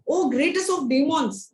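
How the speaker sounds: slow, high, gentle address to a demon king; a young devotee politely honouring his father; sweet humble boy. Retold or imitated. Little Prahalad humbly praising his demon father, slow and high. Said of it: "He talks like that".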